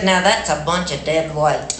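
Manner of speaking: talking through clenched teeth, lips barely moving; lightly imitating Joe Bowman's clamped-teeth talk; teeth clamped shut. Joe Bowman looking down at Amos, through clamped teeth. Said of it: "he'd talk like this with his teeth clamped down".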